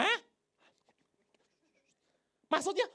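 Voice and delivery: high and loud, baffled; confused loud question. Retold or imitated. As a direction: blurt out the question, lost. Thomas confused, asks loudly.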